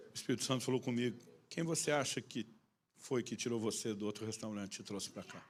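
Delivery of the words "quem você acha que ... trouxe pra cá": quiet question, sinking lower; gentle divine reproof. Retold or imitated. Holy Spirit questioning the preacher, gently reproving. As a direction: let it drop soft and knowing.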